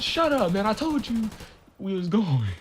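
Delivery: high, loud mimicked scolding; exasperated shouting. Storyteller mimics the officer silencing the passenger, exasperated. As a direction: snap it loudly as the fed-up officer. Acting out officer's second snap.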